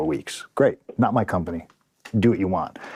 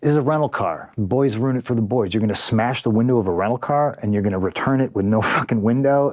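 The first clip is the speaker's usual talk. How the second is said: exasperated disbelief; 3 semitones higher than usual. Retold or imitated. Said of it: "And I said".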